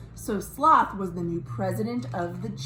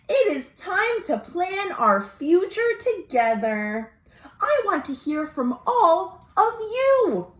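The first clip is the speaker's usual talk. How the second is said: higher, earnest lightly voiced sloth; Sloth's voice; 5 semitones higher than usual. Sloth asking the jungle for votes, earnest. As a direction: plead gently for patience.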